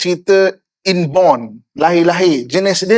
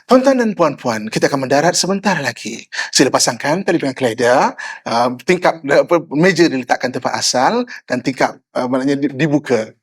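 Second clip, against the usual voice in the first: smiling cabin announcement; 4 semitones lower than usual. Shown as a demonstration. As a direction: make a calm in-flight announcement with a smile. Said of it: "Itu kan smiling voice".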